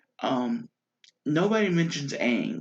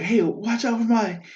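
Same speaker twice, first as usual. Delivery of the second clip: cabbage merchant; 9 semitones higher, 5 dB louder than usual. Retold or imitated. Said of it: "he's like".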